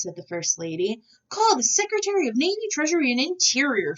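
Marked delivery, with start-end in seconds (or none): 1.3-4.0 high, loud string of summons; shouted order. A narrator's reading. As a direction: yell for every secretary. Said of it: "shouted President Taft".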